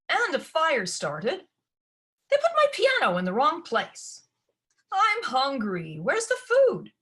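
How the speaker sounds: high, loud whining complaints; spoiled demands. Acted. Spoiled daughter whines demands at her mother, high and loud. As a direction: whine and order mother around.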